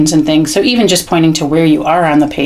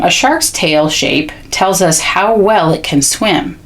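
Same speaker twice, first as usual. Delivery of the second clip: read-aloud; slower than usual. Shown as a demonstration. Models reading aloud to child.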